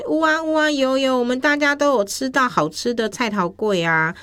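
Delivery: high, eager storybook character; eager reply. Acted. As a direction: pipe up for the whole group, pitched high. Dog's acted eager reply in story. (提高声音，急忙应答)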